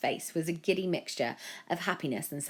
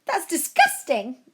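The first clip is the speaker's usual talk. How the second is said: higher, louder disgusted shout; shouting parent; 12 semitones higher, 9 dB louder, slower than usual. A narrator's reading. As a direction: yell it in outrage. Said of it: "a parent shouted".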